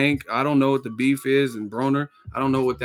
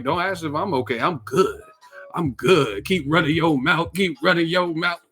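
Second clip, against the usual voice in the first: taunting boxer; 4 semitones higher than usual. Retold or imitated. Acting Charlo taunt.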